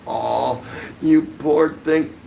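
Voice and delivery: drawn-out sarcastic coo of pity; mock pity. Mocking the rival streamer with fake pity. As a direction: fake sympathy, slow and sneering.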